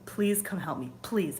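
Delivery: a hint of earnest pleading prayer. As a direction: ask the angel for help, gently begging. Prays to archangel for help.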